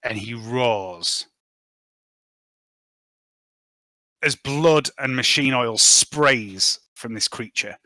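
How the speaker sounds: slow, deliberate scene-setting with long dramatic pauses; game master narration. Acted. Game master describes a monster's kill to players, dramatic narration. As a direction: narrate the gory kill piece by piece.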